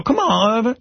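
very high, whiny plea to a bully; pleading kid voice. Retold or imitated. To the big kid Irvin taking his money, a high whining plea. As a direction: beg the bully not to take your money. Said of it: "I go".

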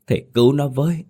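high, begging plea for help; pleading cry. Acted. Ghost begging the master to rescue the dead woman, a high pleading cry. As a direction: beg the master to save her.

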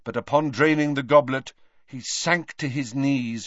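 plain reading voice

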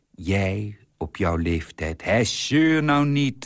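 irritated outburst. Acted. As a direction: snap at her to stop nagging. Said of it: "riep hij geprikkeld".

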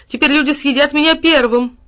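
high, loud mock sobbing; sobbing wail. A narrator's reading. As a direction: wail in despair like a character in tears. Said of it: "снова зарыдал он". (рыдающий вопль)

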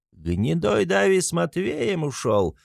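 put-on high, slow drunken yell; shouting. A narrator's reading. Mikolka shouting from the cart to the crowd, high yell. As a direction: bellow it from the cart. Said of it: "кричит он с телеги".

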